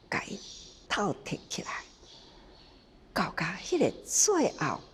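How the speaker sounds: hushed whisper. Real, not acted. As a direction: drop to a whisper. Hushed close to teaching point.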